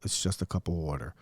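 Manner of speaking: gentle dad calming his daughter; calm reassurance. Retold or imitated. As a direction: soothe her, no big deal. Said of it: "and I'm like".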